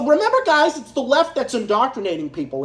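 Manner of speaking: mock-earnest sarcasm to the viewers; "it's the left that's indoctrinating people", said as if he believed it; sneering fake agreement; sarcastic. Sarcastic claim about the left.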